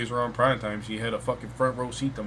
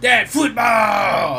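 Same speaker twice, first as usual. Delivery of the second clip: put-on high, loud, very slow child's shout; toddler shouting; 9 semitones higher, 9 dB louder, much slower than usual. Three-year-old daughter demanding football, shouted high. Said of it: "she just comes up to me like".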